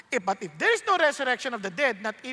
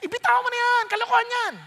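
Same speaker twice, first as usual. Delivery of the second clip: much higher, louder taunt; tempter voice; 13 semitones higher, 7 dB louder than usual. Acted. Preacher voicing the tempter urging him to let go, much higher and louder. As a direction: sneer at his faith.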